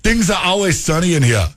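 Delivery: badly faked Jamaican with German edges; German-sounding Jamaican. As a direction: attempt Jamaican, let it slide into German. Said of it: "that was like a German Jamaican".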